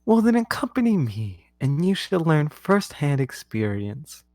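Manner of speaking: high, grand royal invitation; a queen granting a favour; queen's voice. Acted. Queen summoning the new card to follow, high and grand.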